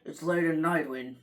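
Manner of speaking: a half-hearted go at a horror narrator; spooky voice. Retold or imitated. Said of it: "have to have the spooky voice".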